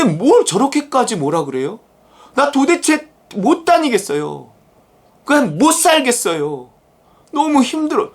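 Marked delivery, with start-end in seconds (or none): 2.3-8.1 whining lament. Retold or imitated. Preacher voicing a worn-out worker's prayer, mild whine. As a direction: pour out a tired grievance to God. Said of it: "이렇게 기도를 할 수 있잖아요".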